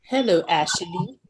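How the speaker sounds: slow greeting with a lilt up at the end; slow, playfully odd hello; odd drawn-out greeting. Real, not acted. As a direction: stretch out the hello and let the name rise. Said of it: "Why you say it like that?".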